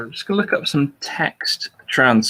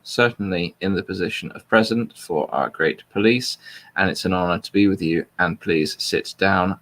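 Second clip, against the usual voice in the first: flat, neutral reading of a speech; monotone voice. Shown as a demonstration. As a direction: read it out flat and neutral, no spin. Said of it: "in a completely neutral monotone voice".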